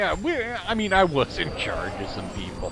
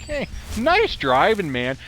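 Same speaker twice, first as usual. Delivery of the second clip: high, slow, over-positive mock praise; cheery compliment with a hidden dig; fake positive; 9 semitones higher, 3 dB louder, slower than usual. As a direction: praise it brightly but sarcastically. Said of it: "they said it in a really positive way".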